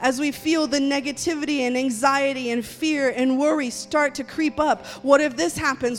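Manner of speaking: rising, loud fervent prayer over the people. Real, not acted. Pastor praying over the congregation, loud and fervent. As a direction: pray it out boldly, pressing on each line.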